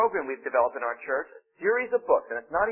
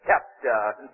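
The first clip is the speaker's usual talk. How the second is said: low preacher impression; Billy Graham; 5 semitones lower than usual. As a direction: intone "Chapter" low, like a radio imitator of an evangelist. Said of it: "imitates Billy Graham".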